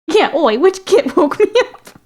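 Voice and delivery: high, loud, hammed-up orc; grumpy orc voice. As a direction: growl it like a rudely woken orc. Orc woken by a kid.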